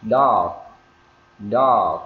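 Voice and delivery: "dog" loud with a long o and barely heard g; drawn-out vowel. Shown as a demonstration. Teacher modelling vowel length, "dog" with lengthened vowel. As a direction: stretch the o in "dog", keep the g tiny. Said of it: "để ý cái độ dài của nguyên âm".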